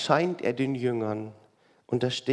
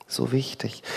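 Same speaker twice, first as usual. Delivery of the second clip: whispered repeat. Real, not acted. Preacher echoes himself, whispering "so wichtig".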